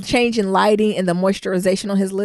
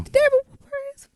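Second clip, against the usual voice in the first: indignant question; much faster than usual. Real, not acted. Fast, higher, indignant question.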